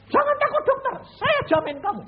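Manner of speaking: high, loud reassuring call; urgent reassurance. Retold or imitated. Former prisoner reassuring the doctor, high and loud. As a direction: call out to calm him.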